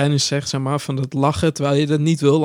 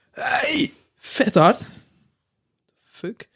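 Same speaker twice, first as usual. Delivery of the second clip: sudden high yelp, half-crying; imitating a coworker's Tourette tic, high yelp; mock tic outburst; 8 semitones higher, much slower than usual. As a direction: blurt it out like an uncontrolled tic.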